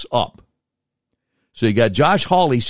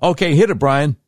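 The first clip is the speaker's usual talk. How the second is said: loud cue; 7 semitones higher, 4 dB louder than usual. Real, not acted. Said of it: "Let me try it again".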